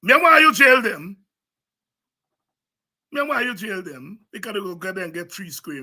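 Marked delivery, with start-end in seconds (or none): 0.0-1.2 higher and louder, demanding; loud challenge. Real, not acted. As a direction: fire the question at the crowd. Speaker repeats line, first loud.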